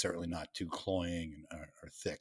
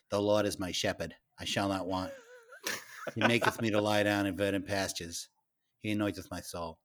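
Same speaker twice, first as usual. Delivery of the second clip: put-on strong Worcester accent. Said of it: "So it was pretty strong accent".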